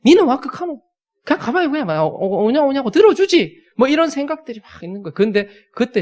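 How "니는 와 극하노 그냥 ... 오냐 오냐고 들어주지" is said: high, loud, exasperated Gyeongsang retort; 화난 사투리로 쏘아붙이듯; indignant outburst. Retold or imitated. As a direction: bark it back in frustration. Imagined retort to a churchgoer.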